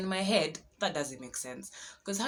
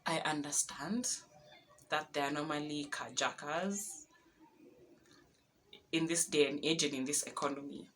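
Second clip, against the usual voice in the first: hushed plea; 4 dB quieter than usual. Retold or imitated. Pleading with passing carjackers.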